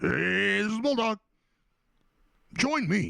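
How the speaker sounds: pitched way up and dragged out. Speaker showing off a bulldog voice practiced for years, in a Rowlf the Dog voice. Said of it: "That was the same as my Rolf the dog".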